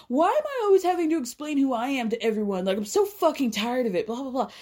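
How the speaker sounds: lightly voiced whiny complaint, quick; mock Che playing the victim. Podcaster mocking Che as self-pitying victim, whiny. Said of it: "Now Che's the victim".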